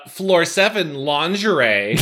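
slow, drawn-out mock call; mock yell. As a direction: call it out slowly, only half yelling. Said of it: "Wanik yells".

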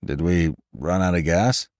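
dazed, calm question; mild, unbothered inquiry. A narrator's reading. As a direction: ask it innocently and evenly. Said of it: "he inquired calmly".

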